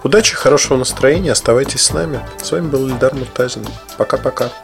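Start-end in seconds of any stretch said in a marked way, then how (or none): none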